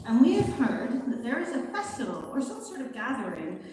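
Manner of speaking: put-on accidental, half-hearted pirate accent; lightly piratical reading of a formal letter; weird pirate accent. Fox envoy reading a letter to the May Queen, weird pirate accent. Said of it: "I'm doing a weird pirate accent".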